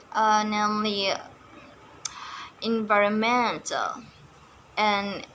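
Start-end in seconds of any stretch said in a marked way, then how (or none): 2.6-4.0 environmental with the stress on MEN; environmental, fourth syllable stressed. Shown as a demonstration. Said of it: "but on the fourth syllable".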